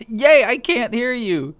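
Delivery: laughing slow yay; amused resignation. Real, not acted. Laughing at mic issue.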